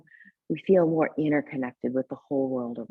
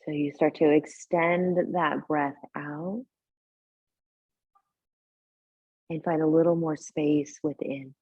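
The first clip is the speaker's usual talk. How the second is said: calm guiding voice with long, unhurried pauses; guided meditation. Real, not acted. Teacher settling a yoga class into tonight's practice, guided meditation. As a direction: ease them gently into breath and body awareness. Leads seated breathing meditation.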